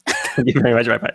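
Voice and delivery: put-on playful echo of a Singaporean accent; mimicked Singaporean accent. Co-host copies her sign-off, in a mock Singaporean accent. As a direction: parrot the Singaporean sign-off, amused. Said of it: "That's my Singaporean accent".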